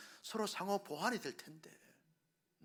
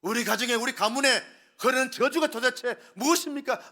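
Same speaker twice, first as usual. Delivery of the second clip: loud demanding complaint; complaining to God; 3 semitones higher, 11 dB louder than usual. Retold or imitated. Pastor voicing a family blaming God, loud accusing complaint. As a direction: demand an answer from heaven. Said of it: "라고 말하면서 하나님께 원망 불평합니다".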